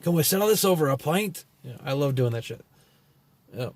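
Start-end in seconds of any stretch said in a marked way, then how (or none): 0.0-1.4 higher, put-on Irish or Scottish pub voice; lightly faked Irish or Scottish lilt; mock Celtic accent, pitched up. Shown as a demonstration. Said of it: "I did Irish voices, Scottish voices".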